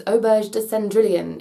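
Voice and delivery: a light attempt at French; French name in an amateur French accent; terrible French accent. Vlogger naming a Paris restaurant, terrible French accent. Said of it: "Excuse my terrible French accent".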